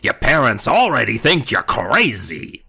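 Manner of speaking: rasping dummy threat; harsh whispery dummy. Acted. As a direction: rasp it cold and harsh. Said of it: "harsh, cold, whispery voice".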